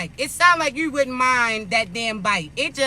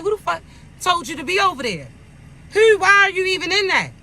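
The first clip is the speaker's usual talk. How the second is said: fast, then rising, exasperated retort; exasperated God; 3 semitones higher, faster than usual. Retold or imitated. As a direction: scold them like an exasperated God. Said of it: "He like".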